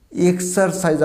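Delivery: এক্সারসাইজ as "ek-saar-saij"; mistaken pronunciation. Shown as a demonstration. Teacher demonstrating the mistake, এক্সারসাইজ as "eksarsaij". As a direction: sound the r and end এক্সারসাইজ on j. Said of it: "এটা ভুল".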